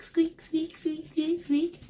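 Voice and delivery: high squeaky toy noises; high-pitched squeak squeak; squeak imitation.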